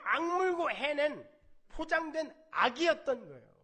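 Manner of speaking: loud, high fervent sermon; impassioned preaching. Acted. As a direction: drive the point home to the congregation. Preaching at full force. (회중에게 힘주어 외치는 열정적인 설교)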